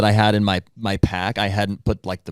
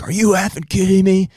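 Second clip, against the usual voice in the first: high, loud mock outrage; retold angry yell; 11 semitones higher, 4 dB louder than usual. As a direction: imitate an irate man's incredulous yell. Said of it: "he's yelling at him".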